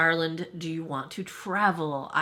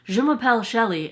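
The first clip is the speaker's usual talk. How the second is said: French phrase; 3 semitones higher, 5 dB louder than usual. Shown as a demonstration. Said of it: "all I remember how to say is".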